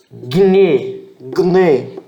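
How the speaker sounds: gne said as a short "gne" sound; teacher models gne; Greek word model. Shown as a demonstration. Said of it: "gne significa mulher".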